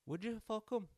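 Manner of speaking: put-on high teasing girl asking a friend; girl's voice. Girl asks in retold bar scene.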